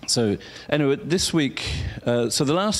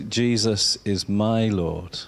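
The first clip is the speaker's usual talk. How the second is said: slow heartfelt confession; slower than usual. Shown as a demonstration. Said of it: "can you say".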